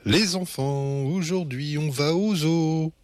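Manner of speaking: high, sing-song mother announcing a treat; excited mother's singsong; enthusiastic singsong. A narrator's reading. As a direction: chant it like a happy mum. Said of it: "chante maman avec enthousiasme".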